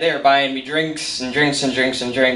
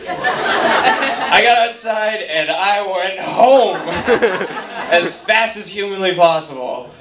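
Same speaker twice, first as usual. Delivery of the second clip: laughing; 4 semitones higher, slower than usual. Real, not acted. Laughing retelling escape.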